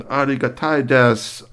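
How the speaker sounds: a polite Japanese thanks; Japanese robot. Acted. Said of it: "speaking Japanese to you".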